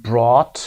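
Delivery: "brought" with an open AW, silent GH; AW as in saw. Shown as a demonstration. Teacher reads the next word in the column, open AW. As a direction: model "brought" clearly with the saw vowel. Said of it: "صدای آ مثل saw".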